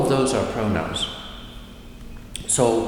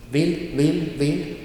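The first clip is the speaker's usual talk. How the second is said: "vill" repeated short, in a higher pitch; 6 semitones higher, slower than usual. Shown as a demonstration. Teacher showing the auxiliary is short, "vill" kept brief. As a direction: keep each "vill" brief.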